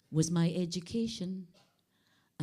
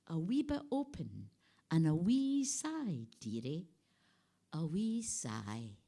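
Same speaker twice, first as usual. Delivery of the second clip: poem reading. Acted. Poet reading The Voyeur to the audience, coaxing. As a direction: read the poem in a teasing, coaxing voice.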